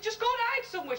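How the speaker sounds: high, pressing order; urgent mock panic. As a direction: play a wife desperate to hide someone. Wife hurries lover into hiding.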